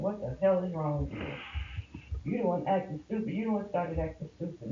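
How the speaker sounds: mild mock yell, sharp and fast; retold angry yelling. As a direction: throw it back at him, exasperated. Retold argument with husband.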